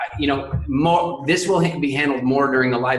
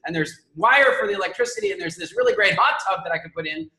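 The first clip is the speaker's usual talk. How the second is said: voicing her, excited; 6 semitones higher than usual. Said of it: "You're going like".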